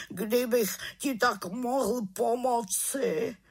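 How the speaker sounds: a guilty raven sighing his regret; sorrowful raven. A narrator's reading. Raven voiced by narrator.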